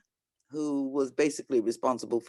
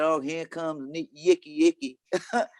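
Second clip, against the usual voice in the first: put-on Southern accent. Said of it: "with this Southern accent".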